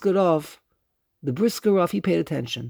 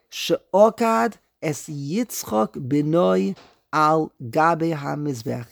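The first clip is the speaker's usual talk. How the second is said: slow siddur reading; much slower than usual. Shown as a demonstration. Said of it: "what does it say here".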